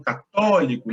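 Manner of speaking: "católico" with the second syllable leaned on; stress on TÓ. Shown as a demonstration. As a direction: punch the TÓ in "católico". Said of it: "o estresse da sílaba tá no".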